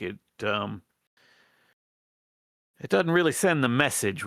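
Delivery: lightly voiced rat plotter in folksy dialect; folksy character voice, halting appeal; earnest rebel rat leader. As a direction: hesitantly plead for the tribe's support.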